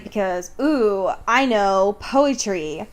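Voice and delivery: slow, mock-smug ooh. Host mocks the author's showing off, slow and smug. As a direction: sneer at the author, slowly. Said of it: "mocking the author".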